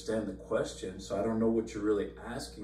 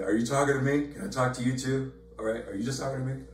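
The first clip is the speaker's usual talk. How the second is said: mock confusion; 3 semitones higher, faster than usual. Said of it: "It's like".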